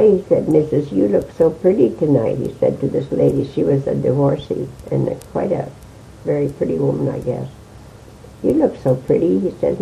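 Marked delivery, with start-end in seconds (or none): 0.5-2.4 lightly imitated accent, pitched up a little; hint of the roadhouse keeper's accent in a compliment; Riley's accent. Flattering a lady at a dance, lightly imitated accent. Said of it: "with his accent". 8.4-9.4 higher-pitched, lightly imitated accent; Riley's accent. Repeating his compliment to the lady, lightly imitated accent. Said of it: "with his accent".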